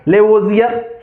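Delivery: लेवोजियर as le-vo-zi-yar, rising at the end; listed variant लेवोजियर, voiced z; alternative pronunciation. Shown as a demonstration. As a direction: say लेवोजियर with le-vo, then z. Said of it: "कई लोग इसे लेवोजियर भी पढ़ेंगे".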